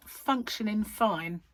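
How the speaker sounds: words stretched by a yawn. Real, not acted. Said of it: "'Cause I said the word, I wanna do it again".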